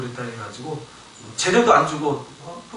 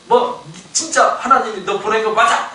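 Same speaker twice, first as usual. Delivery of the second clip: higher-pitched mock confrontation; challenging; 5 semitones higher, 3 dB louder than usual. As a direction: imitate doubters demanding an answer. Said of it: "이렇게 하고 이제 따지는 거죠".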